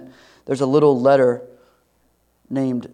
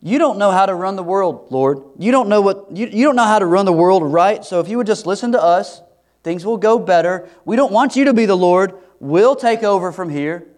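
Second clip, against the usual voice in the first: higher, louder, bossy grumbling; mock complaining; 5 semitones higher, 5 dB louder than usual. Preacher voicing grumbling Israelites bossing God, mock arrogant. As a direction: lecture the Lord like a know-it-all, hammed-up. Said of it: "It's like they're saying".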